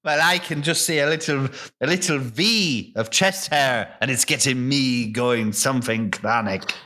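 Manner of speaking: lightly voiced rustic farmer; a hint of a lusty country character; Farmer Buggerton. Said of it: "why is he Irish?".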